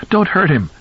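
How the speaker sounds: wife screams at husband to stop hitting; screamed plea. Acted. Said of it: "Rachel screamed".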